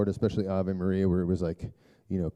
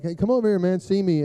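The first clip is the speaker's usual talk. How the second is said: put-on loud, raised summons to a kid; retold calling out; 9 semitones higher, 6 dB louder than usual. Dad calls hiding son over, retold loud summons. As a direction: call him over, higher and louder.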